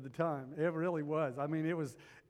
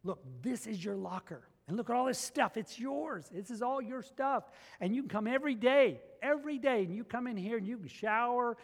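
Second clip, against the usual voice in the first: put-on higher, bright eager tone to the young man; eager to the boy; 6 semitones higher than usual. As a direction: sell him on the locker like a gift. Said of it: "I told him, I said".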